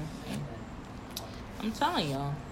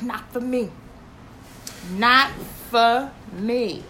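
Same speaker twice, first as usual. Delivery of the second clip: imitating John; slower than usual. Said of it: "He's like".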